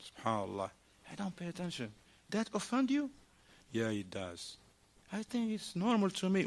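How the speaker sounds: low, soft, calm back-and-forth; soft couple dialogue. Retold or imitated. Couple talking softly after a quarrel. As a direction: speak gently like making up. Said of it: "she's like".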